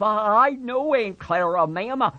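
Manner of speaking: put-on high childlike man's voice, promising; Lenny pleading. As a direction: stammer the promise like a scared child.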